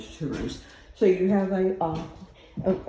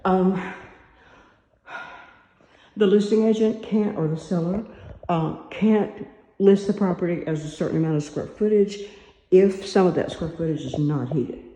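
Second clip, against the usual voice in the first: talking while winded; breathless after the stairs; out of breath; 5 dB louder than usual. Real, not acted. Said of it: "sorry, I'm out of breath".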